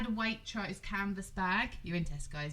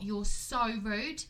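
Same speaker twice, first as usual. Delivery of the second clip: slow rebuke; much slower than usual. Retold or imitated. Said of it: "I went to her".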